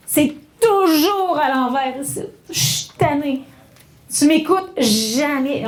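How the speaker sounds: whiny reproach, slow and weary; mock exasperated complaint. Shown as a demonstration. Teacher acting a tired partner complaining, slow and exasperated. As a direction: sigh it out like a fed-up partner.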